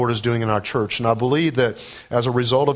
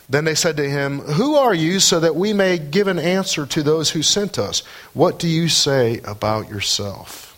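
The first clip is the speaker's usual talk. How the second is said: raised, insistent questioning from scripture; scripture reading; 5 semitones higher than usual. Acted. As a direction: read the interrogators' question out to the congregation.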